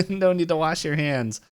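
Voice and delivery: high-pitched playful holler; mock yell. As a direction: call it out in mock urgency. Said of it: "runs in there and yells".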